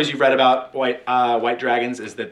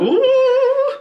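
surprised ooh; 7 dB louder than usual. Real, not acted. Reacts to crit fail story.

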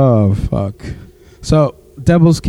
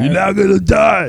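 movie line shout; 6 semitones higher than usual. Retold or imitated.

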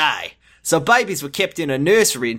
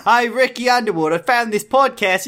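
higher, chipper goofy doctor; 5 semitones higher than usual. Acted. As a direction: sell the podcast cheerfully. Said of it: "Now that Jordan was voicing him".

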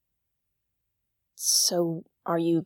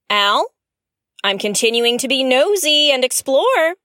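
louder, calling out to Al; 3 semitones higher, 6 dB louder than usual. Real, not acted. Exploring the ship, she calls out to Al. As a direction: call across the ship to the AI.

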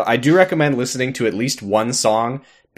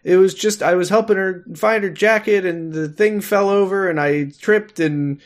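high, hurried excuses from a caught man; flustered husband; 8 semitones higher than usual. Retold or imitated. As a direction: babble excuses, pitched up. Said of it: "he's like".

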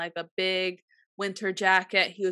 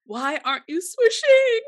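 higher and louder through laughter; laughing mock panic; 11 semitones higher, 7 dB louder than usual. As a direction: cry it out while cracking up. Re-enacting fear, both laughing.

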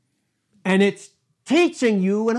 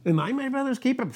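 Cain's retort; 8 semitones higher, faster than usual. Acted. Cain's mocking retort in sermon.

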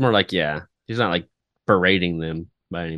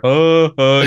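mock laugh, pitched up and louder; loud put-on "huh, huh" laugh; imitated laughter; 5 semitones higher, 6 dB louder than usual. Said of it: "You zoom in on his laughter".

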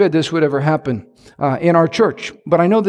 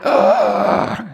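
crowd groan; 5 semitones higher than usual. Retold or imitated. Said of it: "Everybody went".

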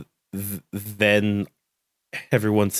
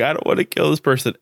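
higher, quicker imitation of a tearful protest; mock crying; 6 semitones higher, faster than usual. Imitating Mio told to kill people, mock crying. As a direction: lightly imitate someone crying, pitched up.

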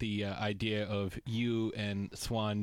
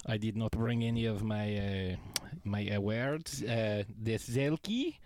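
put-on goofy French-Canadian accent, Borat-like; hammy French accent, halting English; Patrice Bergeron French accent. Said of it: "why does Patrice Bergeron sound like Borat?".

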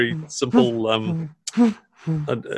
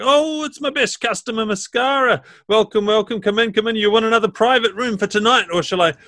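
booming sing song welcome; 9 semitones higher than usual. Acted. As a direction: welcome them in like a jolly landlady. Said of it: "and it's like".

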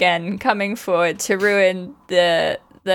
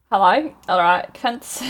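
mock Australian accent; slower than usual. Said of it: "I don't know what accent I'm doing".

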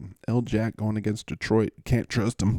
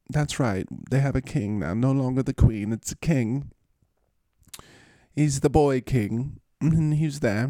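lightly put-on, higher London accent; 4 semitones higher than usual. Host explaining the new king, light London accent. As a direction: chat about royalty in a mock English accent. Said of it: "I like to say that in that accent".

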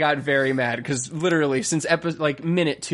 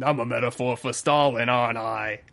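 lightly put-on English accent; mock English accent; 4 semitones lower than usual. Co-host joining the talking pig bit, mock English accent. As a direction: play the pig as a comic Englishman. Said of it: "That's all the accents".

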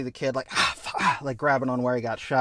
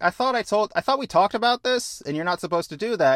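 scolding captain; 8 semitones higher than usual. Acted.

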